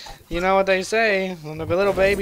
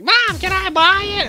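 put-on high, loud pleading kid voice; high whiny boy begging his mom; 13 semitones higher, 9 dB louder than usual. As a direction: beg mom like a twelve-year-old. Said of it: "twelve-year-old boy that's like".

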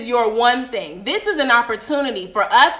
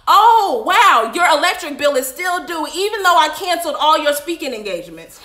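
voicing God; 2 semitones higher, 4 dB louder than usual. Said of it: "Let's see if those lights are still on".

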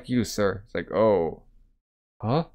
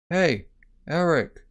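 higher-pitched name call; 5 semitones higher, slower than usual. Retold or imitated. Calling out to Eric, acted higher-pitched hail.

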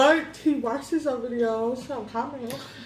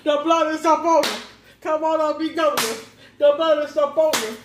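mock preaching. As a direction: preach it like a playful revival.

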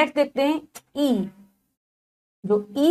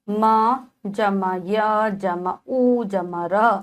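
slow spelling; much slower than usual. Shown as a demonstration. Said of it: "teacher spells word parts".

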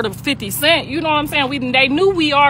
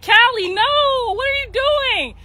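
much higher, pleading alarm; retold alarmed mother; 13 semitones higher, slower than usual. Mother stopping Callie from fighting, high and alarmed. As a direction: stop your daughter before it blows up. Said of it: "And I said".

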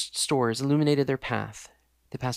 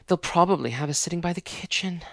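sighing complaint; 4 semitones higher than usual. Acted. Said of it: "sighed Jessica".

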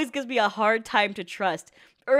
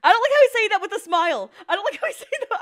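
creeped out; 8 semitones higher, 5 dB louder, faster than usual. Real, not acted. Creeped out by smile.

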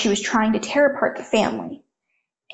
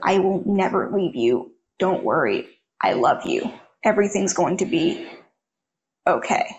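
comforting; 3 semitones lower than usual. Retold or imitated. To her sobbing little brother, a low soothing comfort. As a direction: reassure him gently, voice dropping low.

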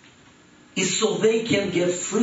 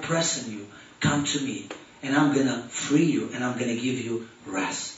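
preaching; 3 semitones lower than usual. Acted. Preacher inviting the congregation, calm and earnest. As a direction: call them in gently as a preacher.

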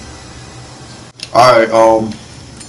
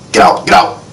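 whispering; 9 semitones lower than usual. Real, not acted. Urging teammates to flee quietly.

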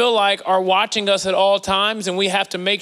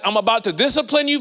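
quick, stern parent warning; authoritative parent voice; 3 semitones higher, faster than usual. Shown as a demonstration. Pastor demoing a stern discipline voice to parents. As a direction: sound like you're about to discipline. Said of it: "that authoritative".

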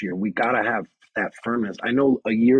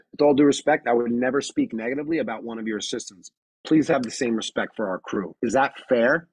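firm respectful reply. Shown as a demonstration. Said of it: "And I finish it with".

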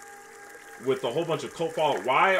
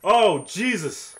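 shaken relief; 7 semitones higher, 8 dB louder, much slower than usual. Real, not acted. After escape.

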